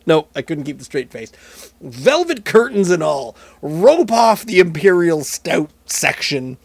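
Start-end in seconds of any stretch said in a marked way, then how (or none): 1.8-6.6 loud, hammed-up presidential Nixon; a loud, mock Nixon address; Richard Nixon impression. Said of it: "I'm going fully Richard Nixon here".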